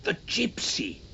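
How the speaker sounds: sudden hushed realisation; sharp unvoiced exclaim of realisation; whispered exclamation. A narrator's reading. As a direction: gasp it out as it dawns. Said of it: "Charles exclaimed".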